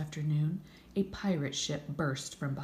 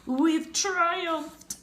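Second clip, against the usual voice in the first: high, loud triumphant coo; 14 semitones higher, 9 dB louder than usual. A narrator's reading. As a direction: coo with pride. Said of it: "Victor cooed".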